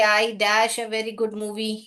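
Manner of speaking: slow, deliberate exercise reading; slow read-aloud. Shown as a demonstration. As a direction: read the sentence slowly for pupils. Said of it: "reads the exercise sentence".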